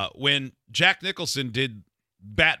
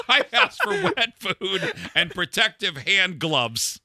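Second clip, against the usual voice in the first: diva; 7 semitones higher, 3 dB louder, slower than usual. Pretend. Mock celebrity demands.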